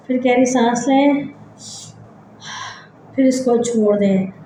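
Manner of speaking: measured relaxation-exercise voice with long pauses; guided meditation. Acted. Leads breathing body-scan relaxation.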